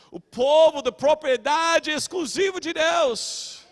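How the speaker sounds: slow, declaimed scripture with pauses; emphatic preaching. Real, not acted. Preacher proclaiming the chosen people, emphatic preaching. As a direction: swell on the titles, loud and high at the end.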